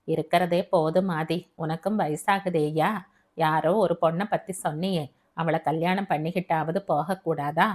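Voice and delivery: low-pitched mother's voice; worried mother. Acted. Mother urges son to marry before leaving, low pleading voice.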